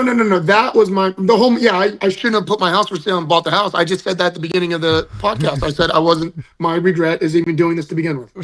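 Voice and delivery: talking with a slight lisp. Real, not acted. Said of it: "did you gain a lisp?".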